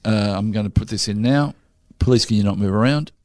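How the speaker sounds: detached, businesslike doctor instructions; mock a doctor with no bedside manner; clinical. Shown as a demonstration. Doctor about to put a needle in, clinical. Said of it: "one where it's clinical".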